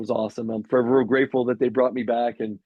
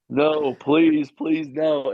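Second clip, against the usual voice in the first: mildly urgent mock plea; retold pleading; 3 semitones higher, 4 dB louder, much slower than usual. Player retelling his plea as the clock runs down, pleading. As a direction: beg lightly, a touch louder at the start.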